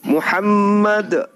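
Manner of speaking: Muhammad diucapkan pelan dan memanjang, nada turun di akhir; slow dictation. Shown as a demonstration. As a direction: eja Muhammad lambat, suku demi suku, untuk ditirukan. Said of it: "ikuti saya dalam bahasa Arab". (imam menuntun mualaf mengucap syahadat, pelan dan jelas)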